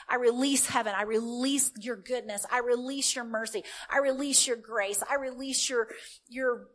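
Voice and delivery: earnest intercession to God; spoken prayer. Acted. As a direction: pray over her with authority.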